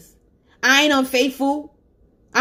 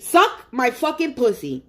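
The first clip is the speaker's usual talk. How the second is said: slow and deliberate. Real, not acted. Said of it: "That's how I say it".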